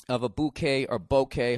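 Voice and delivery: bouquet said first as "boo-kay", then as "bo-kay"; two ways to say bouquet. Shown as a demonstration. Unsure how to say the flower word, he tries bouquet both ways. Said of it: "however the fuck you say it".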